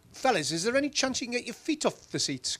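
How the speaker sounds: polite request. Retold or imitated. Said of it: "And I'm like".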